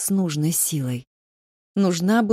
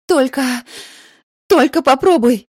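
angry threat; 7 semitones higher, 6 dB louder than usual. Acted. Girl threatens the vampire.

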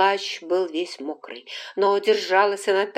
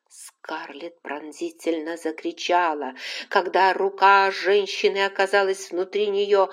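ordinary delivery

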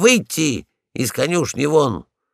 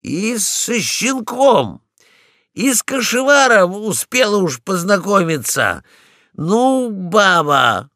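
higher, exasperated and louder at the end; exasperated exclamation; 6 semitones higher, 4 dB louder than usual. Acted. Polkan exclaims at Ragulya's nerve, exasperated. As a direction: throw up your paws at her. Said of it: "воскликнул я".

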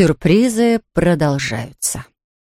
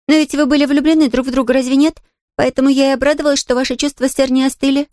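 put-on higher, fast chattering girl; excited little girl; 7 semitones higher, faster than usual. A narrator's reading. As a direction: rush the happy news like a child. Pollyanna eager.

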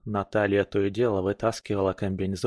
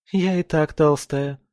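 resigned; 6 semitones higher, 4 dB louder than usual. Acted. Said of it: "отмахнулась обречённо".

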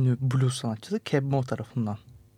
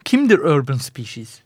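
mock listener question; 7 dB louder than usual. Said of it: "diye soracak olursanız".

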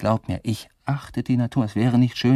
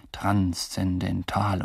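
slow, solemn "Transzendental" drawn out syllable by syllable; 3 semitones lower, much slower than usual. Retold or imitated. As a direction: pronounce "Transzendental" like a grave verdict. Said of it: "mit so feierlicher Stimme".

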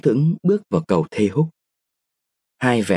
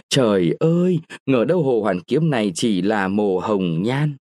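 put-on shrill-edged start, then despairing girl; horrified young woman; 4 semitones higher than usual. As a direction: recoil in horror, then threaten to die. Nguyệt horrified, desperate. (giọng cô gái kinh hãi, tuyệt vọng)

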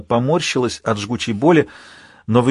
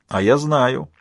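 higher-pitched villain, building in accusation; taunting villain Alpha; 5 semitones higher than usual. Acted. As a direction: needle the hero in a raised, insolent voice.

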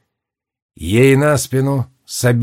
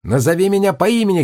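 put-on high, fast boyish cry; a young boy calling out urgently, higher; lion cub's ringing boyish shout; ringing boy's shout; 6 semitones higher than usual. A narrator's reading. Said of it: "крикнул он звонким, с лёгкой хрипотцой мальчишеским голосом".

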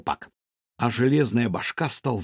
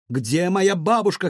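shouting; 5 semitones higher than usual. Acted. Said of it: "крикнула она".

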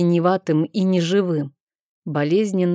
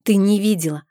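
put-on a boy insisting the monster is real; agitated cry; 3 semitones higher than usual. A narrator's reading. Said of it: "возбуждённо выкрикнул мальчик".

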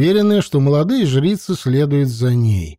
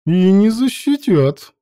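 smug chuckle; 6 semitones higher than usual. A narrator's reading. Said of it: "довольно усмехаясь".

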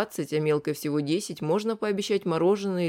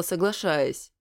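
usual speaking voice

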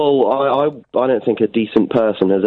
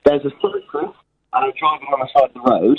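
wobbly warped-tape phone line; warped tape sound. Real, not acted. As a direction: voice warbling like a stretched cassette. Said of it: "sound like a warped tape".

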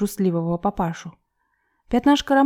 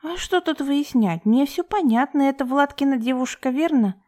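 mother's voice; 6 semitones higher than usual. A narrator's reading. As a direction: lightly voice the boozy mother, knowing.

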